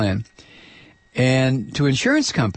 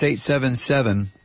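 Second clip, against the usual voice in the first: slow number read; slower than usual. Shown as a demonstration. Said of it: "The phone number here is".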